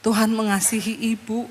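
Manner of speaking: softened pastoral consoling voice; soothing reassurance. Retold or imitated. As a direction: gently comfort a crying woman. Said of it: "Saya belai pun, pun, punggungnya".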